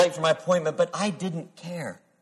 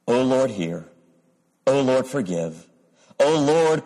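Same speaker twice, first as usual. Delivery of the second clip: grave, measured reading of a prayer; solemn scripture reading. Acted. Pastor reads Daniel's prayer to the congregation, solemn and measured.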